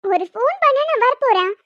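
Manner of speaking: wife surprised to find her husband at the office. Acted. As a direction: caught off guard by his visit.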